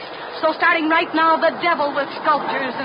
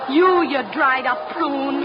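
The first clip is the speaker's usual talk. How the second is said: slow contemptuous insult; much slower than usual. Acted. Girl insulting the old chaperone, slow scorn. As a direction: drag out each word with scorn.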